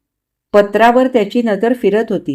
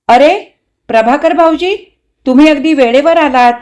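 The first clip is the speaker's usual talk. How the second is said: higher, lifted welcome; pleasantly surprised greeting; 5 semitones higher, 4 dB louder than usual. Acted. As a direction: greet the unexpected visitor with raised pitch. Wife greets arriving family friend. (आनंदाश्चर्याने स्वागत)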